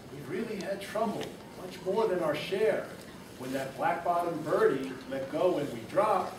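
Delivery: a hint of a tiny mayor pleading. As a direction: plead from far below. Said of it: "pleaded the voice".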